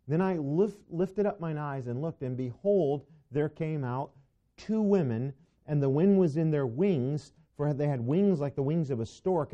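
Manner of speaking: animated Bible reading, key words punched; scripture reading. Acted. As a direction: read scripture aloud with emphatic energy. Reads scripture aloud to class.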